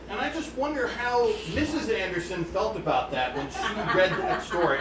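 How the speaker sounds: chuckling through the words; laughing. Real, not acted. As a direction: laugh while you wonder aloud. Amused aside about Mrs Anderson.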